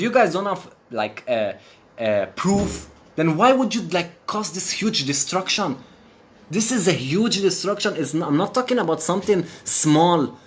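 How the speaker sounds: rising anger, demanding answers; outraged rant. Real, not acted. Outraged rant about the destruction.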